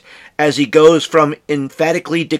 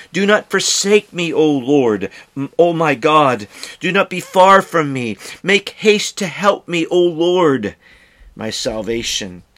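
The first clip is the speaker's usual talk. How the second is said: urgent psalm plea; pleading scripture reading; 3 semitones higher than usual. Acted. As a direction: beg like the psalmist.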